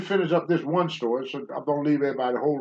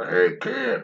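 wrestler calling out; 5 semitones higher than usual. Retold or imitated. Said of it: "that's just how the wrestler talks to you".

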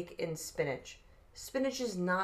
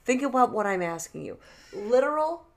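raised, higher and louder indignant argument; offended rant; 4 semitones higher, 5 dB louder than usual. Real, not acted. Defending his point to his friend, indignant and loud. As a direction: push back hard on "too literal". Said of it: "You got so offended".

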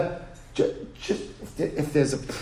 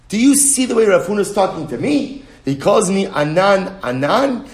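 offended complaint; 5 semitones higher, 5 dB louder than usual. Retold or imitated. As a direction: stretch it out, wounded pride. Rav Anan offended retelling.

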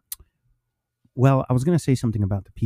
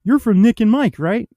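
higher, louder mock rookie voice; imitating the rookies; 10 semitones higher, 3 dB louder than usual. Cohost mimicking rookies teasing about Nick, higher mock voice. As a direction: lightly ham up the rookies' teasing. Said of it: "They're like".

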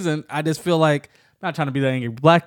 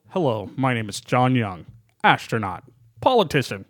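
generic white guy voice; 4 semitones lower than usual. Shown as a demonstration. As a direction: introduce yourself like a plain white guy. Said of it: "a very generic white man's name".

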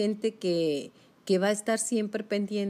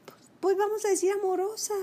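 loving whisper; 13 semitones higher, faster than usual. Shown as a demonstration. Showing the listener how to treat oneself, a loving whisper. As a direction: breathe the word amorosa tenderly. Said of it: "de una manera ... amorosa".

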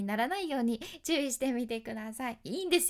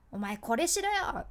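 mock aggressive order; 4 dB louder than usual. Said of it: "嫌な攻撃的な話し方で".

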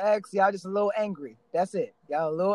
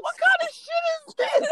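retold outrage. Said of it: "I'm like".

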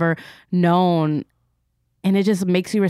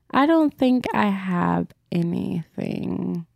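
slow musing; slower than usual. Real, not acted. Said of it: "I'm thinking".

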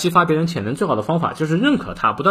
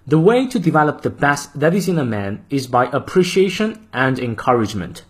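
model reading. Shown as a demonstration. Teacher reading the full quote aloud for practice. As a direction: clear measured reading of the quote. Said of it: "从头到尾我们来过三遍".

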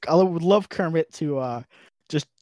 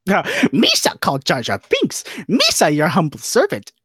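a hint of Jar Jar, unhurried; Jar Jar Binks impression. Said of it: "do an impression for me".

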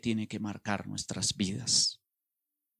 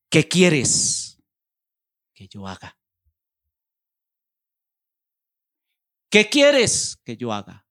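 pleading cry; 8 dB louder than usual. Acted. Saul's trembling plea to the Lord.

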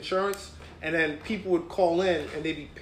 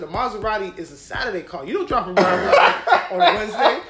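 retold teasing through laughter, getting louder; joking; 2 semitones higher, 5 dB louder than usual. Joking with an upset claimant on the phone, teasing. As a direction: rib the caller, building to a loud punchline. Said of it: "I was just joking with him".

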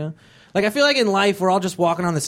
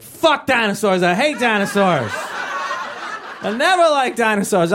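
put-on sulky teen; 5 semitones higher, slower than usual. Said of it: "he was like".

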